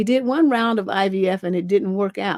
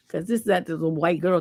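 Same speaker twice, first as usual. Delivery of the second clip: ordinary talk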